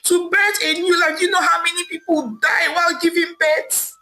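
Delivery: high, tearful wail of a betrayed wife; crying and wailing. Acted. Wife crying out to her cheating husband, wailing. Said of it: "Amaka said aloud, crying and wailing".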